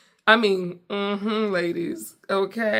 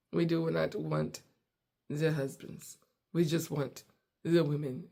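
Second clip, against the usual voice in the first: earnest waiter; 2 semitones lower, 6 dB quieter than usual. Retold or imitated. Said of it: "He's like".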